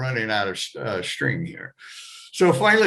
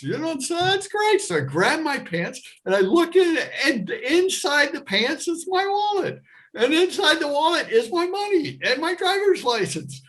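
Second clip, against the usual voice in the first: high, rising glee as each item turns up; breathless retold joy, pitched up high; excited; 13 semitones higher than usual. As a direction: gush with growing delight at finding everything. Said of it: "So I am so excited".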